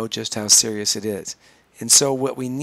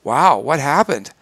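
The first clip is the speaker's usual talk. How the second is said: catching receiving voice; 5 dB louder than usual. Shown as a demonstration. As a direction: catch them gently, drawn out. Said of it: "a receiving voice that sounds like this".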